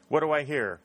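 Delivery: rally the bidders; auctioneer's cry. A narrator's reading. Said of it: "cried Talbot".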